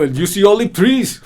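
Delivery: laughing through the words; a high giggle breaking into the line; real laughter mid-rant. Real, not acted. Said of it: "I'm laughing".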